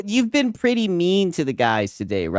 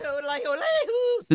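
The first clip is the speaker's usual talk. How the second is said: mock zesty drawl; 11 semitones higher, 6 dB quieter than usual. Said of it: "now we're getting zesty".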